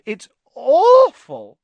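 a delighted ghost relishing bad news; gleeful ghost. Myrtle gloats to Harry and Ron over Hermione, high and slow.

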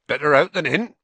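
jolly gamekeeper making light of it; cheerful. A narrator's reading. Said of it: "he said cheerfully".

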